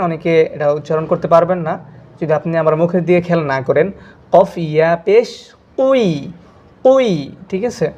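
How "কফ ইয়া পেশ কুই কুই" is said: কুই said clearly, lips rounded; careful pronunciation demo. Shown as a demonstration. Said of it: "এই উচ্চারণটা খেয়াল করেন". (কুই স্পষ্ট করে, মুখ দেখিয়ে)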